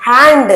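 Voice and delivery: హ్యాండ్ with a full clear d; separate hand. Shown as a demonstration. Teacher sounding the d in హ్యాండ్ alone. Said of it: "విడిగా అయితే మనం హ్యాండ్ అంటాం".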